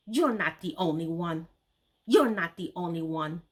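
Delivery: dismissive. Retold or imitated. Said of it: "she replied dismissively".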